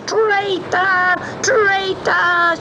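high, shrieking witch; furious cry. Acted. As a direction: hurl it at him in rage. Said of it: "she cried".

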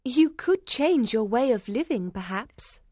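smiling suggestion. A narrator's reading. Young woman encourages a troubled man, smiling. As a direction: offer it with a smile. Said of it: "Lucy suggested with a smile".

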